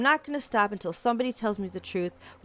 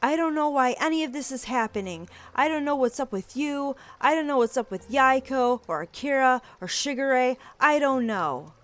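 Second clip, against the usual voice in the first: angry outburst; 4 semitones higher than usual. Acted. Fight, repeated shouted denial.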